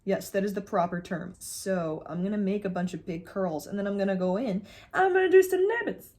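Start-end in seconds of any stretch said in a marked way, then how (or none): 1.4-6.1 playful self-mockery rising to a squeal; mock self-quote. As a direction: sends up her own confident plan. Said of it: "says she's not gonna look".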